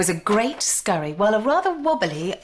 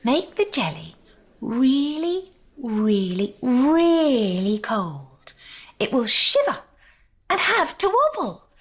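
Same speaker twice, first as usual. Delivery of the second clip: proud; 5 semitones higher than usual. A narrator's reading. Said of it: "said the smallest guest proudly".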